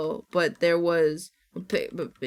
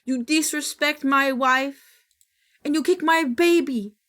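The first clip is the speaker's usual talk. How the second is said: quoting meme; 5 semitones higher, 4 dB louder than usual. Retold or imitated. Streamer reciting the meme to chat, mildly aggrieved. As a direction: recite the meme lines, wronged and half-laughing. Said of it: "That's what it reminds me of".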